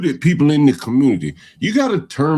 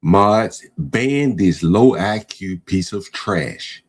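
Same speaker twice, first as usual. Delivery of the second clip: contemptuous; 6 semitones lower, much slower than usual. Real, not acted. Host orders ban of caller.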